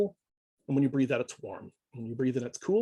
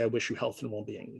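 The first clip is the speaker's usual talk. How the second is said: gentle wish; 4 semitones lower, 7 dB quieter than usual. Shown as a demonstration. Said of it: "and you say".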